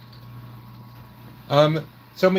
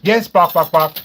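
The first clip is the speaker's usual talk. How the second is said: chicken clucking; 5 dB louder than usual. Pretend. Chatting about a small town, clucking loudly like a chicken. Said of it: "but how many chickens".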